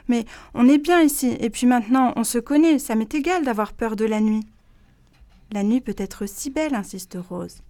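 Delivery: gentle read-aloud with character voices; storybook reading. A narrator's reading. Reading Rose et Célestine aloud on the radio, storytelling. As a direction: read it to children, lively and clear. Reads picture book aloud.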